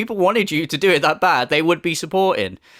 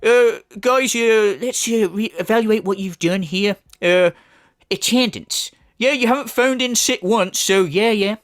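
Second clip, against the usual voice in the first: mock evaluation; 3 semitones higher than usual. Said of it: "Now he's just going".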